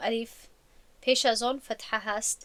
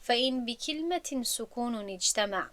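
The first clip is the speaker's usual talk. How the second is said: recited verse. Shown as a demonstration.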